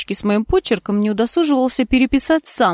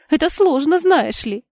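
higher, louder, wound-up reply; emotional; 8 semitones higher, 4 dB louder than usual. A narrator's reading. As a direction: let the feeling spill over. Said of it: "на эмоциях воскликнула". (взволнованно, на эмоциях)

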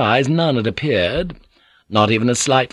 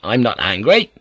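icy. Acted. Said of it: "Blackthorn said icily".

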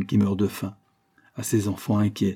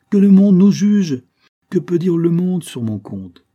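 impassioned outcry; 8 semitones higher, 9 dB louder than usual. A narrator's reading. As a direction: cry out against what people will say. Heated exchange about the world's judgement.

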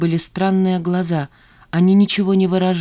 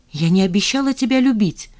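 ordinary delivery, nothing marked

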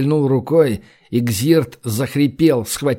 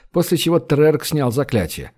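ordinary delivery

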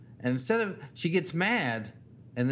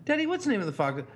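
put-on higher, pleading little-kid voice; whiny child; 7 semitones higher, faster than usual. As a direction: pester Daddy like a toddler. Dad mimics daughter's pestering question.

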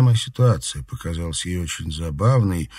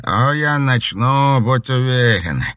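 slow, high menacing promise; breathed threat; 7 semitones higher, 7 dB louder, slower than usual. A narrator's reading. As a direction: draw out the threat slowly. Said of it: "выдохнул Альбинос". (медленная угроза)

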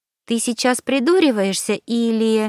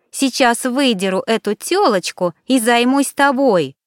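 angry; 5 semitones higher than usual. Acted. Alina accuses him of cheating.

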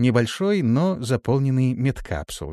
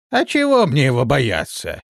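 angry; 4 semitones higher, 5 dB louder than usual. A narrator's reading. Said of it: "рассердился старый шаман".

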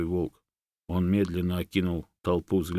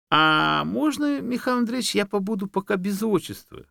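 high, wheedling fox voice; 14 semitones higher, 4 dB louder than usual. A narrator's reading. Fox speaks to bear.

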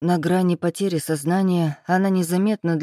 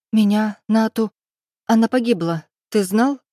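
louder, higher pained voice; raised anguished accusation; 5 semitones higher, 5 dB louder than usual. Acted. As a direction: throw the loss at him. Heroine reveals the loss. (героиня бросает ему в лицо потерю: громко, с болью)

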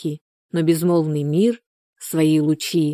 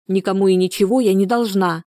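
angry; 2 semitones higher than usual. Acted. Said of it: "не скрывая злости".

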